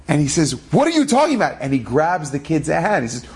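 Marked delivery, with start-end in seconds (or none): 0.7-1.6 higher-pitched retold disbelief; mock bewilderment. Rav questioning the boy who claims to see him, mock bewildered. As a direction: question it in acted astonishment.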